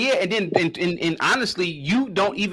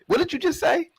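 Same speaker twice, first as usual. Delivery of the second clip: exasperated demand; 11 semitones higher than usual. Real, not acted. Heated argument, demanding.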